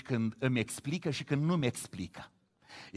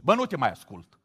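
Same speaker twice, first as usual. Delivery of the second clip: mock scolding. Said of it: "nu vine să facă dirigenție".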